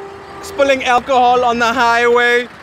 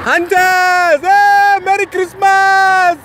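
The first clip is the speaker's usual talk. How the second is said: calling out; 5 semitones higher, slower than usual. Real, not acted. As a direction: shout greetings at the crowd. Calling out to looters.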